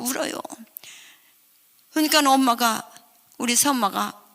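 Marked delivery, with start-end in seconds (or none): none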